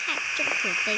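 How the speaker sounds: loud exasperated sigh-shout; loud exclaim. Real, not acted. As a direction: blurt it out loud in dismay. Reacts loudly to game rule. (大声感叹)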